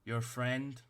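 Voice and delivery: a tiny officer barking orders at the party; stern little captain. Acted. Captain addresses party again.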